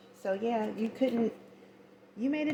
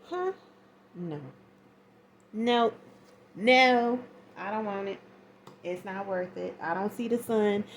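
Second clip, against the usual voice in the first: indignant refusal; 5 dB louder than usual. Retold or imitated. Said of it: "And you was like".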